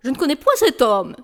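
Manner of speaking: déclamé avec emphase sur point; acteur de théâtre cabotin. Acted. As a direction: comme un tragédien sur scène. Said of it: "Sur quel ton faut-il vous le déclamer?". (déclamation théâtrale appuyée)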